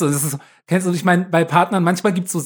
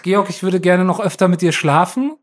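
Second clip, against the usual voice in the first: imitating affectionate partner; 2 semitones higher than usual. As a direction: gush lightly as the partner, half laughing. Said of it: "die das immer so aus dem Nichts gesagt hat".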